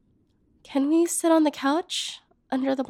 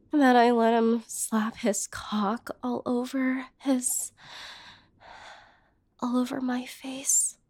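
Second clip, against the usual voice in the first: ashamed whisper. Acted. Humiliated woman confessing to her lover's brother in a whisper. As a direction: whisper it as if too ashamed to say aloud.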